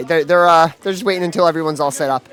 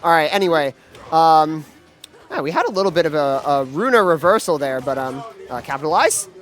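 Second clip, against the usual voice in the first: lively esports caster call; play-by-play commentary. Acted. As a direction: call the action as it happens. Live play-by-play of the match.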